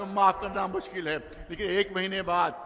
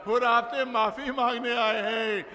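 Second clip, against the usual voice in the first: raised, ringing call towards the tent; 4 semitones higher than usual. Acted. Imam calls at tent door.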